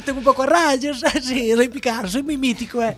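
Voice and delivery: put-on Andalusian-Galician accented Spanish; Picasso voice. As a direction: play Picasso with a mixed accent. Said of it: "soy Pablo Picasso".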